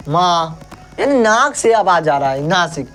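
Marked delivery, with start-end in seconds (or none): 0.1-0.6 माँ with the vowel through the nose; nasal demo. Shown as a demonstration. Teacher showing the nasal sound माँ. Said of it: "बोल के देखो तो".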